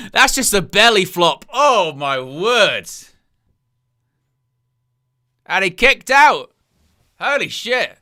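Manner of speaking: loud, high, amazed yelling; reacting to a brutal belly flop; wrestling commentator. Real, not acted.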